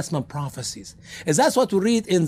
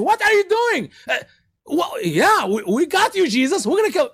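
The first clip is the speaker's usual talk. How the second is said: mocking soldiers; 11 semitones higher than usual. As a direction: jeer at the captive. Soldiers voiced in retold scene.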